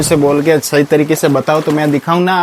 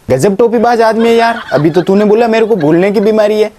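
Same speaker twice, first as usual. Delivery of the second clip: laughing in disbelief; 6 semitones higher than usual. Acted. Incredulous at being blamed.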